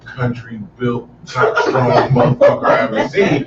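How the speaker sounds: laughing through an amazed remark; recalling first seeing a huge teammate; laughing disbelief. Retold or imitated. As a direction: crack up while describing him. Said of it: "I was like".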